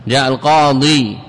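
القاضي with a long final ee; final ya kept. Shown as a demonstration. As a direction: hold the ee ending القاضي. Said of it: "أصل فيها إثبات الياء".

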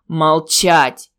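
sharp, loud bark of an order; barked command. Acted. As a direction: snap it like a furious teacher. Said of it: "так рявкнул".

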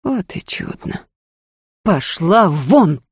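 cold dismissal. Acted.

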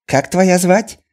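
Chinese merchant voice. A narrator's reading. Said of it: "не унимался торговец".

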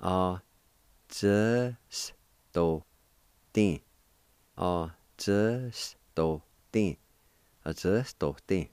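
"A, z, s, do, tin" spoken as separate syllables with a short pause after each; teacher sounds out the word for students; syllable drill. Shown as a demonstration. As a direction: model "A, z, s, do, tin" one syllable at a time. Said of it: "it's pronounced like this".

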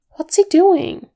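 high anxious question; frightened. Acted. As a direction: ask in fear. Frightened hobbit asks.

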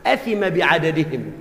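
sheikh's verdict repeated. Retold or imitated. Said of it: "بقى كل واحد فيهم له عنده حق،".

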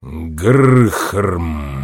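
low, rumbling growl; low stone giant rumble; stone monster's grunt. A narrator's reading. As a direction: grind it out deep like a rock giant. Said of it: "повторил монстр".

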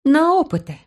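high, dry sarcasm; sarcastic girl. Acted. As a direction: jab at him, pitched high. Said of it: "не скрывая сарказма".

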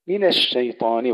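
من with a light thin نون before الشيطان; light nun. Shown as a demonstration. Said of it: "ترقيق النون". (ترقيق النون في من)

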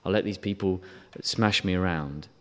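soft, limp resignation; lightly mocked passive sigh. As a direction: play the doormat, quiet and meek. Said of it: "He doesn't sit by passively".

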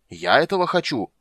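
loud, high, indignant outburst; thundering. A narrator's reading. King denying he wants war, thundering indignantly. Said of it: "прогремел Дункан".

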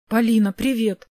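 mildly pleased hello; friendly, understated welcome; smiling greeting. A narrator's reading. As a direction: greet with a smile in the voice. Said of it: "В его голосе чувствовалась улыбка".

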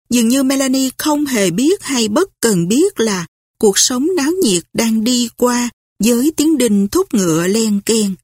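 ordinary delivery, nothing marked

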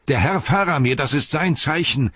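high, excited recognition; calling out. A narrator's reading. Beregond knows his lord's signal, high excited call. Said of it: "rief Beregond".

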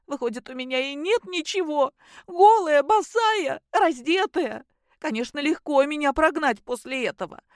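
high, loud indignant complaining; upset daughter. A narrator's reading. Daughter ranting to her parents about her husband, upset. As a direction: pour out your outrage at the husband. Daughter's long tearful, angry account.

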